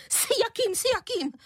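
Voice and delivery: mock-indignant high-pitched cry; unnaturally high cry. A narrator's reading. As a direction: shriek it in a strained high voice. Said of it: "vykřikla paní Prchlivá nepřirozeně vysokým hlasem".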